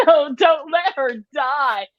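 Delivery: slow, high pleading cry; mock crying plea. Bystander begging over drowned woman, mock plea. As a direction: beg them not to let her die. Retelling crying person in movie.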